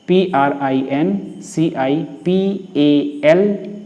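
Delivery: slow, letter-by-letter spelling. Shown as a demonstration. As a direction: spell each letter slowly and distinctly for students. Teacher spells out the word. (एक-एक अक्षर धीरे-धीरे बोलते हुए)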